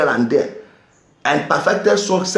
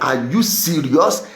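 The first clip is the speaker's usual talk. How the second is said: amused disbelief; 5 semitones lower than usual. Retold or imitated. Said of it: "I'm like".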